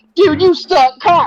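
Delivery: very high-pitched yelling, acted out. Retelling a customer's insult over the phone: imitating the caller yelling. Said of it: "they start yelling back at me".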